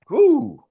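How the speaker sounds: loud, high woo of hype; excited whoop. Real, not acted. Trainer whooping to fire up his team. Hype announcing number four.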